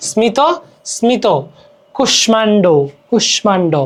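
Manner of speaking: স্মিত as "smi-to", কুষ্মাণ্ড as "kush-man-do"; audible m. Shown as a demonstration. Teacher illustrating Sanskrit m, careful স্মিত, কুষ্মাণ্ড. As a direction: keep the m clear in স্মিত and কুষ্মাণ্ড. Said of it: "ময়ের উচ্চারণ হয়".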